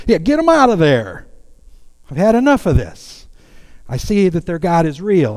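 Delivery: a hint of a fed-up tyrant king; exasperated king. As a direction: bellow like a king who has had enough. Evil kings give in, voiced.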